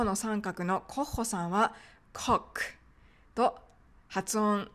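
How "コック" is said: コック with a final K sound; English Koch. Shown as a demonstration. Teacher guessing the English name of Koch, コック with final K. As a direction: say コック English-style, ending in K. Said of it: "英語ではされる可能性が高い".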